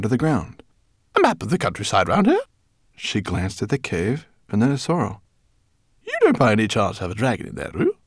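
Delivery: rat voice. Acted. Lola voiced.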